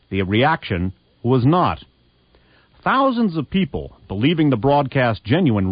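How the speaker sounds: dramatic reading aloud. Shown as a demonstration. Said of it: "The column reads".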